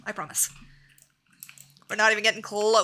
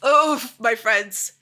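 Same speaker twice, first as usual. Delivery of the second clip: drawn-out oof; 7 dB louder, much slower than usual. Real, not acted. Reacting to the big beast.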